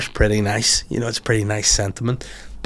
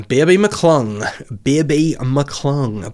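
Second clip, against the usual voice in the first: slow drawn-out name call across a waiting room; vet calling out; 3 semitones higher, much slower than usual. Retold or imitated.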